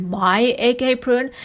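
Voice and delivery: "my" drawn out, imitating her; stress on my. Commentator quoting wife's reaction to the gift, stressing "my". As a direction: lean slowly on "my" in "my egg apron". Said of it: "The way she said".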